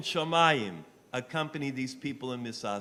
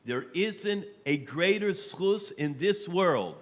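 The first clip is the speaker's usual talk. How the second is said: slow emphasis; 5 semitones higher, 6 dB louder, slower than usual. Real, not acted. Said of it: "I will say it".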